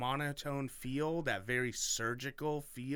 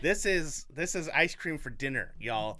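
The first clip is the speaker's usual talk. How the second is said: louder, playful bragging; hyped up; 3 semitones higher, 6 dB louder than usual. Real, not acted. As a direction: sell it like a treat. Hyping own story.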